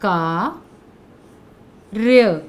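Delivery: कार्य stretched very slowly, the half र rolled into य; "कार्य" बहुत धीरे, खींचकर; drawn-out model word. Shown as a demonstration. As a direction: sound out कार्य slowly with a light र before य. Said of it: "ये देखिए".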